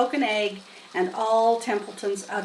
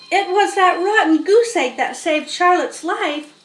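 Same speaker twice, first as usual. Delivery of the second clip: high, louder eager voice; excited pig; 8 semitones higher, 7 dB louder than usual. Acted. Wilbur proudly telling the barn animals. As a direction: tell it like the triumphant hero. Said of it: "said Wilbur".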